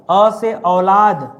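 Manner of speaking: each word drawn out very slowly for the class to memorise; slow rote drill. Shown as a demonstration. Teacher drilling students to memorise words, slow and deliberate. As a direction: chant it slowly so they can learn it by heart. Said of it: "कुछ चीजें मैं आपको रटा दे रहा हूँ".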